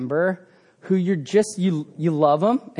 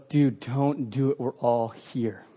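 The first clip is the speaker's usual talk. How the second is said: gentle plea; 7 semitones lower, 7 dB quieter, slower than usual. Retold or imitated.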